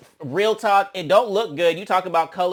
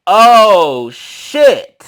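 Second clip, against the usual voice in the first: loud, rising oh shit; mock shocked; 3 semitones higher, 11 dB louder than usual. Hearing Bianca warned a rapper, loud and shocked. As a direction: caught off guard, loud. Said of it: "And I'm like".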